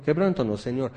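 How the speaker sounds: a quick, dutiful rattle-off; offhand prayer. Retold or imitated. Some believers praying without meaning it, offhand. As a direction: say it because you're supposed to. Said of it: "Y algunos dicen".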